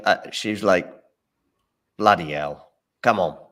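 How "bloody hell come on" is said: mock Cockney shout, bit louder; lightly imitating a Cockney player; Cockney accent. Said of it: "In a Cockney accent".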